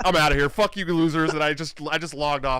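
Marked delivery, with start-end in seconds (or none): 0.0-1.3 fed up. Retold or imitated. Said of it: "I'm like".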